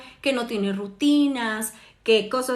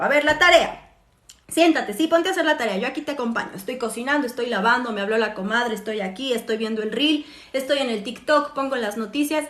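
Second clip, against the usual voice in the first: bossy mom; 3 dB louder than usual. Retold or imitated. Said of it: "yo como mamá les digo".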